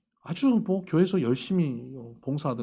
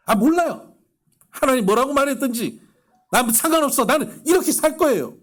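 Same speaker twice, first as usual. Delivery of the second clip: high, loud indignant retort, mimicking the deaconess; angry shout; 12 semitones higher, 8 dB louder than usual. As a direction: throw it back defiantly, voice way up. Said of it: "뭐라는지 아세요?". (높고 크게 버럭 소리치는 권사님 흉내)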